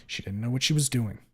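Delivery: deliberate, restrained restatement; calmed down. Acted. Narrator restating it to Stella without cussing, calmed down. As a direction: say it composed, holding the temper in. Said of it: "Calm down".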